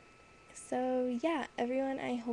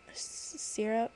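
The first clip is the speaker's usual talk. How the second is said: whispered slip; slower than usual. Real, not acted.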